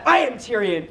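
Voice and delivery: mildly angry character declaration; a touch of anger, held in. Shown as a demonstration. Coach models an angry Tyrion for student. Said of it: "always be angry about it".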